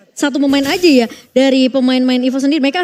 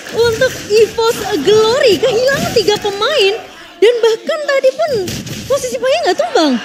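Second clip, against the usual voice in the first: excited reaction; 5 semitones higher than usual. Real, not acted. Co-caster reacts to play.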